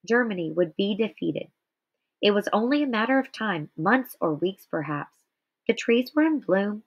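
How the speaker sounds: measured read-aloud narration; story reading. Acted. Teacher reading Night aloud to students, measured narration. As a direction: read the memoir passage to the class with steady care.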